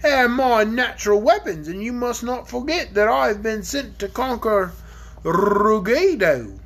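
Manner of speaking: a lightly voiced gruff old dragon, slow at first. Dragon telling the children about his ancestor, lightly voiced. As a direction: play the dragon, grumbling about his grandpa.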